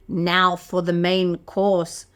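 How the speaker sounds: low, slow gloating wolf; sly wolf. Acted. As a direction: savour each word like a villain.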